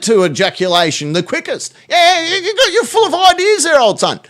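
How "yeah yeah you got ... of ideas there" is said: high, laughing mock praise; cackling sarcastic yeah yeah; laughing sarcasm. Real, not acted. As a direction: sneer through a laugh. Sarcastic praise of caller's idea.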